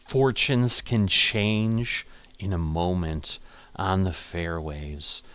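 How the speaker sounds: slow, hushed golf commentator; drawn-out dramatic broadcast voice; golf announcer. Pretend. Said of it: "Do I sound like a golf announcer?".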